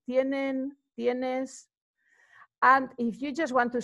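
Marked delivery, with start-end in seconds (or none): 0.1-1.7 "¿Tienen?" and "¿Tienes?" each lifted at the end as questions; rising question tune. Shown as a demonstration. Spanish teacher modelling questions for shoppers, rising at the end. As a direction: let "¿Tienes?" climb on its last syllable. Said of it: "you will go up at the end".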